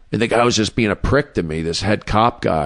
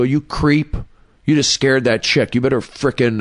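yelling at the creep; 5 semitones higher than usual. Retold or imitated. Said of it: "I go".

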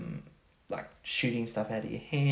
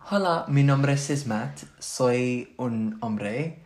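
Spanish phrase; 4 dB louder, slower than usual. Shown as a demonstration. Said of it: "Do you wanna hear a sentence?".

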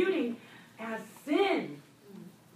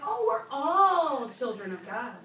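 breezy popular claim; 6 dB louder than usual. Retold or imitated. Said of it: "a lot of people say".

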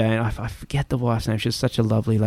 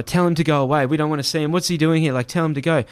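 higher-pitched, agitated retold protest; mildly panicked, pitched up; agitated refusal; 4 semitones higher, faster than usual. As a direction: act out an urgent plea to be spared. Retold refusal to face attacker.

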